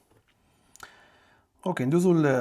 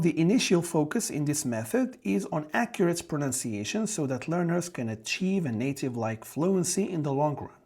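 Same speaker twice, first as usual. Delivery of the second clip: slow, careful reading of an exam item; reading question aloud; much slower than usual. Acted. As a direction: read the question out slowly for the class.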